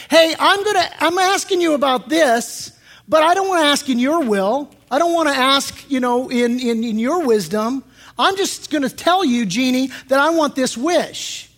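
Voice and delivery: hammed-up entitled wish-making; foolish demanding prayer. Preacher mimics a foolish prayer to a genie, mock brash. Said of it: "you see how foolish that sounds".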